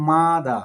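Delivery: "মাদা" in two drawn-out syllables, মা-দা; teacher breaking "মাদা" into two beats; split into syllables. Shown as a demonstration. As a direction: stretch "মাদা" out as মা, then দা. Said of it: "মাদা মানে দুইভাবে উচ্চারণ".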